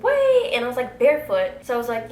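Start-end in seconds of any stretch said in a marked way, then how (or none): 0.0-0.5 much higher, loud call; shouting. Retold or imitated. Calling after the runaway friend, loud shout. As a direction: shout to stop him.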